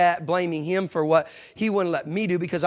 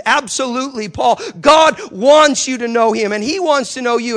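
firm assurance; 5 semitones higher, 5 dB louder than usual. Retold or imitated. Preacher answers atheist firmly.

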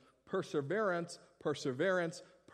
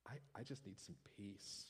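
weary congregant; 5 semitones lower, 9 dB quieter than usual. Acted. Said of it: "others of you going".

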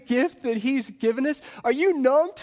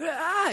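imitated scream; 9 semitones higher than usual. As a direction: give a small, high-pitched imitation of screaming. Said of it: "they start screaming".

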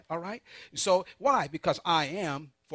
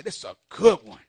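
plain; 10 dB louder than usual. Shown as a demonstration. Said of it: "you didn't say it like me".

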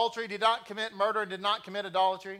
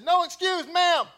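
higher, louder recruit sound-off, laughing; sounding off at home; 9 semitones higher, 6 dB louder than usual. Retold or imitated. Husband answering his wife like a recruit, mock sound-off. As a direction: bark it like a recruit, half joking. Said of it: "I said".

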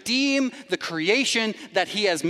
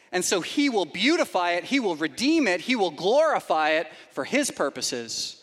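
ordinary talk, nothing marked

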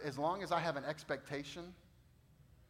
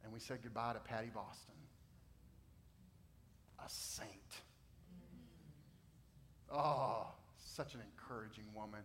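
much softer, lower, hushed pastoral voice; soft closing tone; 3 semitones lower, 7 dB quieter than usual. Acted. Pastor closing the sermon, hushed. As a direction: bring the room down gently.

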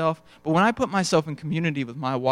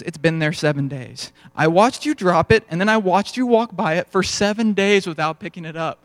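steamed wife; 4 dB louder than usual. Retold or imitated. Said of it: "she was kinda getting steamed".

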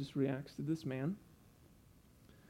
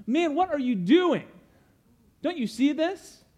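sharp, much higher and louder rebuke; exasperated scolding, pitched way up; angry tone; 12 semitones higher, 9 dB louder than usual. Pretend. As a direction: snap at him in frustration. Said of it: "in an angry tone".

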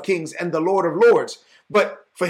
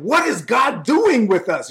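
slow mock cry of alarm, a bit louder; 4 semitones higher, 3 dB louder than usual. Preacher voicing brothers crying out to God in alarm. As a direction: spell out the panic slowly. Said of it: "they said".

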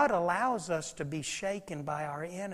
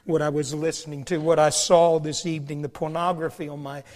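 anguished crying out; 12 dB louder than usual. Acted. Sinner confessing addictions to God, anguished shout. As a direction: cry out to God in desperation.

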